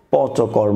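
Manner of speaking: প, চ, কর with no puff of air; plain stops in প, চ, কর; unaspirated sounds. Shown as a demonstration. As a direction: keep প, চ, কর free of any h release. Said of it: "মতোই উচ্চারণ করব".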